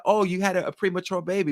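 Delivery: high, lightly acted assumption; surprised nurse.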